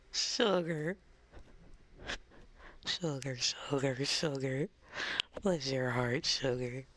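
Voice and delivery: lightly played-up Southern sweetness; a touch of Southern belle; Southern endearments. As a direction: dote on them in a Southern accent. Playing up Southern pet names.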